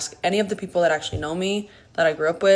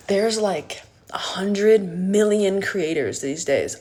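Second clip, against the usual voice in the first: whispered aside; slower than usual. Real, not acted. Pointed aside to critics.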